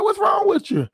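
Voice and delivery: high-pitched mock shout at his ex; retold yell of alarm. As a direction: throw the question up high like a yell. Calling to ex-wife on phone.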